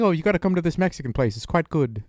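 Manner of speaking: a rough attempt at a British friend's accent. Friend recommending a Mexican place in London, mock British accent. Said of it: "that's my attempt at a British accent".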